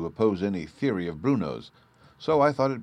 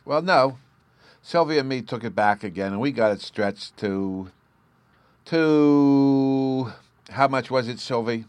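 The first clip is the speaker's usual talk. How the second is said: put-on high, eager child voice; little boy Bruno; 7 semitones higher, 7 dB louder than usual. A narrator's reading. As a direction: chatter like an excited small boy.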